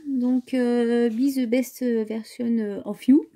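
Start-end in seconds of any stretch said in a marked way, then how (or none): 1.1-3.3 slow English line in a strong French accent. Real, not acted. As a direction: say the English slogan the French way, slowly. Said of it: "Pardon pour mon accent anglais". (anglais avec un fort accent français)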